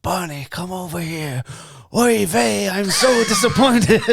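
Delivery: imitating a Jewish old man; hint of an old Jewish man. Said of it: "You were like".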